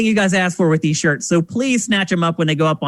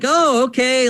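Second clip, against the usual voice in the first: put-on sheepish kid; 7 semitones higher, slower than usual. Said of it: "And I'm like".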